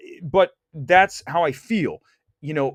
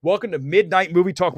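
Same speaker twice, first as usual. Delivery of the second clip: louder announcer opening; show host intro; 4 dB louder than usual. Shown as a demonstration. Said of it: "Coming out in three".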